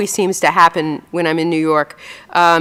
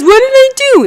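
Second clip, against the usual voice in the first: high, louder bewildered husband; baffled husband; 5 dB louder than usual. Retold or imitated. Old husband protesting to angry wife, mock bewildered squeak. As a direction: squeak out innocent confusion. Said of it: "And he says".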